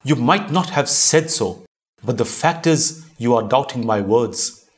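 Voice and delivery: understated angry outburst. Acted. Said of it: "Raising his voice, he shouted".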